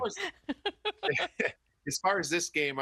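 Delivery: high, slow put-on Boston voice; Boston accent. Shown as a demonstration. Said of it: "give us your best Boston accent".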